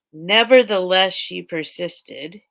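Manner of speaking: "Nevertheless" loud, "she persisted" slow and drawn out; dramatic slogan. Acted. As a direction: proclaim the slogan with mock gravity. Reading slogan on her shirt.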